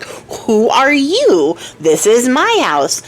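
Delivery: slow, lightly voiced grumpy old man; old man's voice. Old man confronting the girl at his door, slow and put-out.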